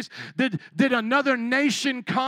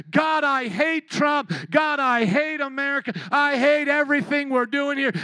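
mock complaint; 5 semitones higher, 4 dB louder than usual. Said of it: "if we complained to God".

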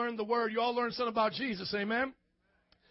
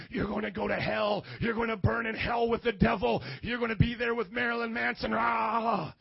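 imitating a hellfire preacher in a put-on voice; mock a ranting preacher, ending in a roar; mock yelling preacher. Preacher threatens me with hell, mock yelling. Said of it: "a preacher yelling at me".

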